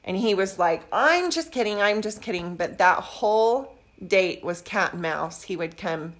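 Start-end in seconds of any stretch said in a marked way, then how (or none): 0.9-2.6 hasty backpedaling. Retold or imitated. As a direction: laugh it off nervously. Date backpedals after awkward rejection.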